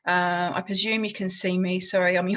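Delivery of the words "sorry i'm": yawning. Real, not acted.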